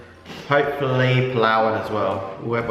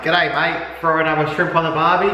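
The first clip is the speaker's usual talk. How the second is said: corny Aussie; 5 semitones higher than usual. Pretend. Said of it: "something corny".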